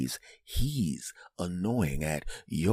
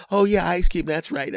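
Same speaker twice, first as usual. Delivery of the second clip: high, put-on child voices; kids playing along; 10 semitones higher, 4 dB louder than usual. Kids covering for the secret signal, high mock eagerness. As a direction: imitate kids suddenly catching on.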